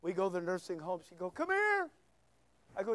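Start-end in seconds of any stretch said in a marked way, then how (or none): 1.3-1.9 put-on high-pitched old lady calling; little old lady. Nursing home lady calling the visiting preacher, high old-lady voice. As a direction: mimic an old lady beckoning. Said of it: "little old ladies at the nursing home".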